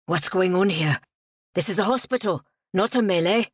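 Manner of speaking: loud, cross orderly; scowling reprimand. A narrator's reading. Hospital orderly rushing down the ward, scowling reprimand. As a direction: scold with a touch of anger.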